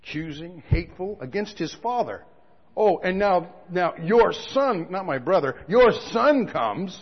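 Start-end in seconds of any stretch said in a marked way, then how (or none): 2.8-7.0 slow, sneering "your son"; a touch of a jealous brother; bitter mock complaint. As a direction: spit out the resentment. Elder brother's bitter complaint voiced.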